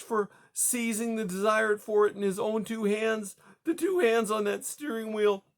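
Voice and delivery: high, tearful, building to hysteria; rising hysteria. Acted. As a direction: let the panic climb with each clause. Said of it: "Her voice rose in hysteria".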